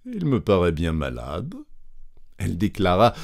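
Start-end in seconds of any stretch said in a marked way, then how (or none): 0.1-1.5 compassionate. Acted. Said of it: "d'un ton compatissant".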